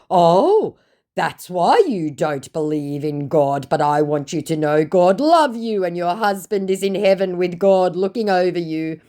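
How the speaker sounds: syrupy fake piety; mock scammer. Scammer trying to move her emotions, in a high mock voice.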